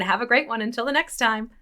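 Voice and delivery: rote, sing-song end-of-video spiel; video wrap-up patter. Acted. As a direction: rattle off a YouTube sign-off. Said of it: "video wrap-up patter stuck in my head".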